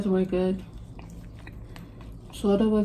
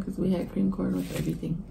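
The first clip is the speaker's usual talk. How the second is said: whispering; 6 dB quieter, faster than usual. Real, not acted. Aside about dad's cooking.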